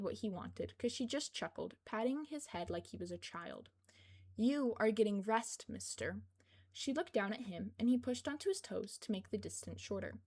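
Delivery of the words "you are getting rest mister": slow, firm motherly ruling; firm, teasing. Acted. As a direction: lay down the law, half teasing. Kayama firmly overrules Izuku.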